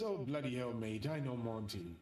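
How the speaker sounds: imitated English accent, lightly done. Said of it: "There's a nice little English accent".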